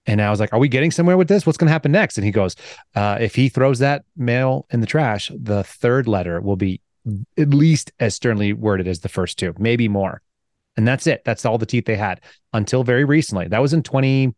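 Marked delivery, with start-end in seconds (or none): 0.5-2.2 higher-pitched incredulous questions, retold; mock impatient questioning. Acts out his impatient question to attorney. 2.9-10.2 deliberate bureaucrat. Retold or imitated. Acts out attorney's toothless bureaucratic answer.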